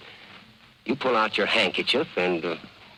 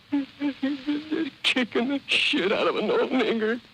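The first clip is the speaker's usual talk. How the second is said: high, indignant put-on whore voice, slow in places; 13 semitones higher than usual. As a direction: tell it like an outraged old madam.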